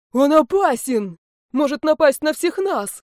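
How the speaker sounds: alarmed shout. Acted. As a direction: cry out a warning. Isar warns class loudly.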